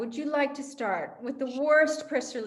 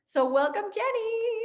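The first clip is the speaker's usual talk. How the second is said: soaring high on the name; theatrical welcome; 10 semitones higher, 3 dB louder than usual. Acted. Host welcoming guest Jenny, swooping theatrical welcome. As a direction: greet her like a showbiz host.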